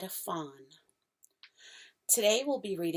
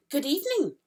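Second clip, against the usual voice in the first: put-on higher, brighter girl's voice for Lucy; Lucy's voice, a little girl saying good evening; Lucy's greeting; 9 semitones higher, 5 dB louder, faster than usual. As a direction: greet him as young Lucy. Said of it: "said Lucy".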